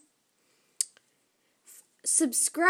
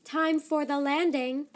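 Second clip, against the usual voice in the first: mechanical voice; 2 semitones higher than usual. Acted. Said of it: "said the mechanical voice".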